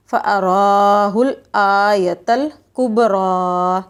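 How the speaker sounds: the را in فَأَرَاهُ said heavy and drawn long. Shown as a demonstration. Teacher showing children the heavy ra in فَأَرَاهُ. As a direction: fill the mouth on را in فَأَرَاهُ and stretch it. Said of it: "را کو ہم موٹا کریں گے، اور تھوڑا سا ہم لمبا بھی کھینچیں گے".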